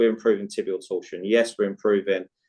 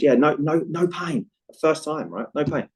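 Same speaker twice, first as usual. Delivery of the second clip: client happily reporting back to his coach, higher and lightly excited; retold happy report; 5 semitones higher than usual. Client telling coach of first pain-free night out, retold happily. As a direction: relay his good news in a raised, pleased pitch. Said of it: "He was really, really happy about it".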